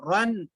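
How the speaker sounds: रन with a thick, rounded "ron"; slightly heavy r. Shown as a demonstration. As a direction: say रन full-mouthed on the r. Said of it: "रा को थोड़ा मोटा पढ़ते".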